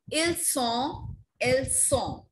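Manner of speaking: "Ils sont" lifted, "elles sont" falling, each set apart; pronunciation model. Shown as a demonstration. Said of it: "This is how we pronounce it".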